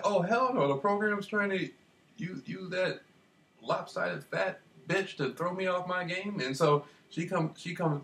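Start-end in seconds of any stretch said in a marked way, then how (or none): 0.0-6.4 indignant. Retold or imitated. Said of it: "And I'm like".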